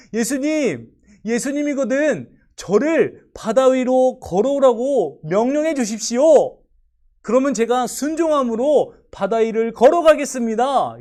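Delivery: high, loud eager request; overjoyed plea. Acted. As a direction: beg with a bursting heart. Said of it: "가슴 벅차는 마음으로". (벅찬 마음으로 간청하듯)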